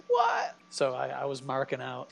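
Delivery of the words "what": very high, loud squeal of disbelief; retold starstruck yelp; stunned fan reaction. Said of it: "I was like".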